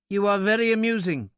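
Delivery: high, precise little-man voice; indignant little man, unamused. A narrator's reading. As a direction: say it high and offended.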